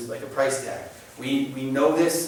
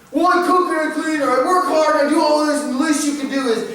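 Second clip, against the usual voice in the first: mock resentful complaint; 13 semitones higher, 6 dB louder than usual. Parody of resentful spouse.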